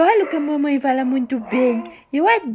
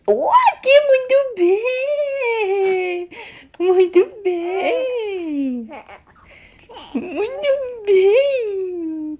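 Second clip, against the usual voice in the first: drawn-out praise; 3 semitones higher, much slower than usual. Real, not acted. Mother cheering her baby's kiss, slow and sing-song.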